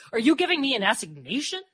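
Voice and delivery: high, loud, incredulous question; exclaiming. A narrator's reading. Mary questions Murph's plan, exclaiming in surprise. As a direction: let the question climb in disbelief. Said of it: "Mary exclaimed".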